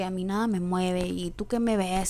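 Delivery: lightly voiced hard-nosed matriarch; a hint of a tough woman who says nothing moves her; slow, a touch of defiant older woman. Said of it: "crear un personaje duro".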